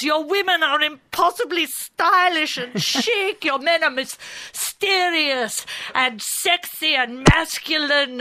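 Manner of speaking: french chef. Retold or imitated. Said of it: "You just flatter them and you pamper them".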